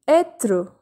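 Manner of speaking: Être as "eh-truh", open first vowel; circumflex E pronunciation. Shown as a demonstration. Teacher repeating the example for viewers, Être as "eh-truh". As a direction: model Être clearly, "eh-truh". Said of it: "The sound is A".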